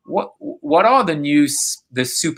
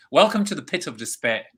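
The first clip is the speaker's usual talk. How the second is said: movie line quote again; 2 semitones higher than usual. Retold or imitated. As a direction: say the favorite line again, lightly voiced. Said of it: "one of my favorite lines".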